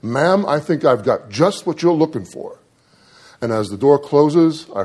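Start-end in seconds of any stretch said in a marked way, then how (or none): 0.0-2.6 forced cheer. Retold or imitated. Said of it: "in the most cheerful voice she could muster".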